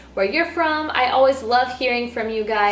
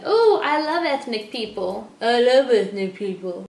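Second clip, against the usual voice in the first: a hint of a gushing, clueless admirer; lightly mock the fawning fan; mocking gushing person; 3 dB louder than usual. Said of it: "people saying I am so exotic".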